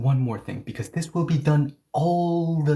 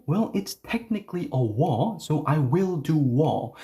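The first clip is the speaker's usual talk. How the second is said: mock pedantic learner; 4 semitones higher than usual. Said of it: "if you say".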